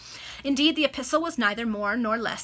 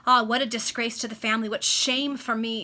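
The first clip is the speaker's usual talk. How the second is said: dismayed outcry; 2 semitones higher, 7 dB louder than usual. Acted. Wife cries out in disgrace.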